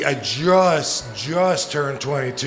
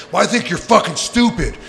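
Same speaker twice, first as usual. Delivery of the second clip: intense; 4 semitones higher, 4 dB louder than usual. Retold or imitated. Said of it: "got, like, real intense".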